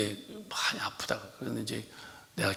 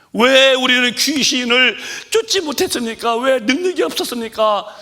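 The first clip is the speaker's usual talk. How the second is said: high, loud preaching cry; impassioned cry; 12 semitones higher, 13 dB louder than usual. Real, not acted. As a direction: wail the question out. (부르짖는 설교 외침)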